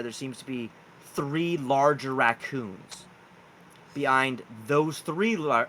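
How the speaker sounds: slow, deliberate scene setting; game master narration. Acted. Game master reveals giant raccoons at the campfire, slow narration. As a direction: draw out the reveal piece by piece.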